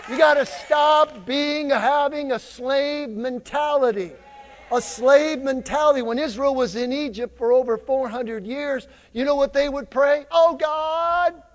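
emphatic sermon delivery, punching key words; fired-up preacher rallying the congregation; rousing preaching. Real, not acted. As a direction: preach it with drive and conviction.

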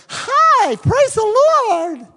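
very high, loud, slow sugary mock greeting; hammed-up high churchgoer gushing at the door; fake churchy greeting. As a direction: put on the saccharine Sunday-morning voice. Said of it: "you didn't talk like that in the car".

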